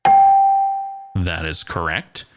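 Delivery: slow, loud drawn-out announcer reveal; big slow host voice declaring correct; game show host. Pretend. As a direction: stretch it like a quiz host.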